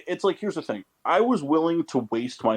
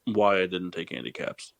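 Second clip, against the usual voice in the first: seething whisper; 5 semitones lower, 4 dB quieter than usual. Real, not acted. Stewing over missed pick.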